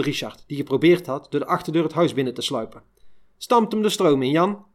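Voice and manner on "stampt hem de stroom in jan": shrieked. Retold or imitated. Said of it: "gilde onze Truus".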